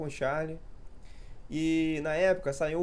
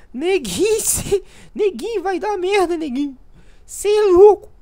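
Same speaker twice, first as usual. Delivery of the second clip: much higher and louder squeaky taunt, loudest at the end; squeaky little voice; 13 dB louder, slower than usual. Retold or imitated. Brothers teasing each other in a loud squeaky voice. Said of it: "a gente falava".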